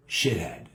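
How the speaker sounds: shithead read flatly off the note; reading a note aloud. Retold or imitated. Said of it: "It's supposed to be shithead".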